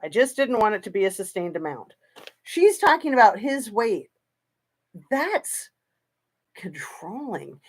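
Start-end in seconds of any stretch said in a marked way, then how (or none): 0.0-1.9 a quick dismissive parrot of her words; lightly mocking, hurried quote; fast mocking repeat. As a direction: rattle her line off quickly. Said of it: "That's what she says".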